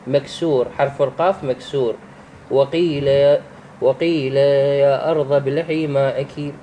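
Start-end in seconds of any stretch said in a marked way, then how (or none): 2.5-6.5 slow recitation with وقيل drawn out on "ii"; elongated vowel. Shown as a demonstration. Teacher demonstrating madd in a verse, long "ii" in وقيل. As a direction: hold the ya in وقيل for two beats. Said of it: "يكون المد بها بمقدار حركتين".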